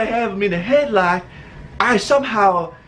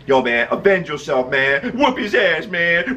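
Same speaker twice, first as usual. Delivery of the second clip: little inner voice. Retold or imitated. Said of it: "Little inner voice like".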